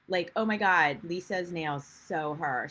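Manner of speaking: lightly put-on Valley girl; a hint of gushy Valley girl; mock Valley girl lilt. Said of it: "talk like a Valley girl".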